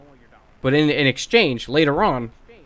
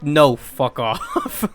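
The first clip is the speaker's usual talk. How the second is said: laughing refusal; 4 dB louder, much slower than usual. Retold or imitated. Refusing coworkers while laughing.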